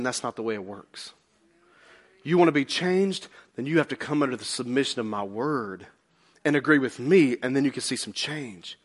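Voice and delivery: low, quiet firm instruction; God answering. Retold or imitated. God setting terms for a believer, low and firm. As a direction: speak as God, softly laying down terms. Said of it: "And God is saying".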